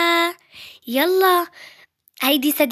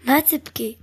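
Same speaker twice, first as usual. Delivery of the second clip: whispered comfort. Acted. Comforting a crying girl.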